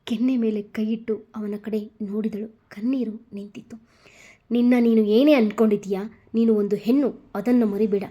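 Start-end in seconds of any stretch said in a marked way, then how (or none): 4.5-8.0 fast, louder furious rebuke; angry man scolding a girl. Acted. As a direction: tear into her, fast and hard. Hero scolding her after slap.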